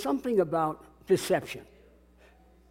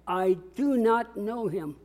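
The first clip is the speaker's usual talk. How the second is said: I do not know him, read slowly, word by word; slow read-along; 2 semitones higher than usual. Shown as a demonstration. Preacher reading slowly with the congregation. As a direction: lead the room through it slowly. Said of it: "Let's read the whole text out loud together".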